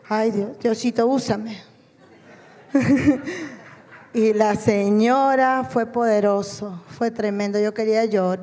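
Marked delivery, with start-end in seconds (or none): 0.1-1.6 slow, amused little prayer through a laugh; half-joking retold prayer, laughing; laughing mock plea. Retells her nervous prayer, laughing. 2.7-3.5 real amused laugh at herself; bright burst of laughter; short laugh. Real, not acted. Laughs at her own fear.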